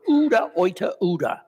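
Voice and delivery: a touch of Peter's shouted denial; repeated retold yell. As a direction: insist over and over, calming down. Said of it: "he kept saying it over and over".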